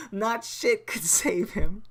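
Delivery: hushed punchline whisper; whispered mock eulogy. Real, not acted. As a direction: drop to a breathy secret for the punchline.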